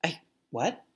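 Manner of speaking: soft, baffled stammer; stunned disbelief. Retold or imitated. Daughter stunned by her father's advice, soft disbelief. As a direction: caught off guard, barely audible. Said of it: "And I was just like".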